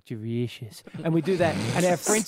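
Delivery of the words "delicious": low, soft creepy delicious; mock creepy delicious. Wife echoing the cannibal joke back over dinner, low and soft. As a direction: breathe the word low and quiet. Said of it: "And she go".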